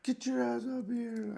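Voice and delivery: slow, high mock order; staff sergeant. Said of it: "Staff Sergeant".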